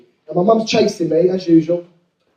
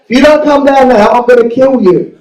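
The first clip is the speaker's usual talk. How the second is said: angry; 5 semitones higher, 4 dB louder than usual. Retold or imitated. Dad's threat translated.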